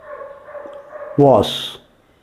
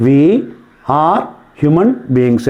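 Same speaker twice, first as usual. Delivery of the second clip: dictation; 2 semitones lower, much slower than usual. Shown as a demonstration. Dictating for students to write.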